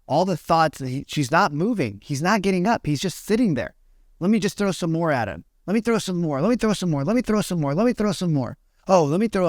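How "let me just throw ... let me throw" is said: higher, sneaky voice of the body plotting; body as a schemer. Retold or imitated. The body plots against the meditator, higher and sly. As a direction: play the body scheming to break you. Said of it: "the body's voice speaking".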